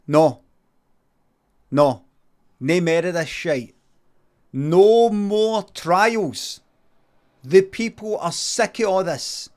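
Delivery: loud, slow stern ruling; stern judge. Retold or imitated. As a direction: lay down the law loudly.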